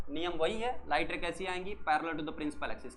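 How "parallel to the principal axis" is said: slow dictation. Shown as a demonstration. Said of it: "कैसी आई बेटा?".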